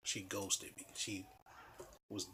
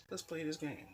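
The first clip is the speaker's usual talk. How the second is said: sly mock challenge; 8 semitones higher than usual. Inner thought repeated, mocking lift.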